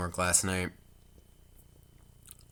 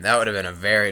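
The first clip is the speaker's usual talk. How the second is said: loud retake; 7 dB louder, faster than usual. Real, not acted.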